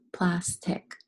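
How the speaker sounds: "plastic" as two beats, plas, tic; syllable by syllable. Shown as a demonstration. Teacher helping pupils feel the syllables, "plastic" said in two parts. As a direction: pause between the halves of "plastic". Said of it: "Fill your syllables".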